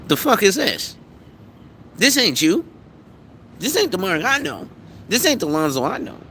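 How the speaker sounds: God unimpressed. Retold or imitated. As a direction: play God squinting at a fake prayer. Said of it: "God is sitting there looking at you like".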